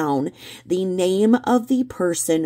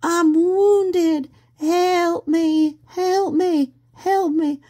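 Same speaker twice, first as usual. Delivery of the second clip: much higher, louder hammed-up wounded lady; mock damsel in distress; 12 semitones higher, 3 dB louder, much slower than usual. Betty mocked as a wounded lady pleading. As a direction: wail it like a faker playing hurt. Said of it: "she plays the damsel in distress".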